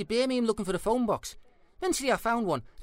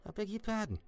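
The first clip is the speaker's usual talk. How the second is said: cold offended; 2 semitones lower, 9 dB quieter than usual. Acted. Offended, cold reaction to insult.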